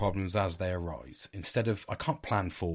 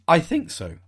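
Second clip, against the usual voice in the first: high daughter voice; 8 semitones higher, 8 dB louder than usual. Retold or imitated. Daughter's quoted reply, high.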